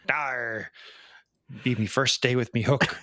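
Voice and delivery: a hint of a pirate delivering the punchline; lightly voiced pirate. Retelling the joke's punchline, light pirate voice. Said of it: "a pirate walks into a bar".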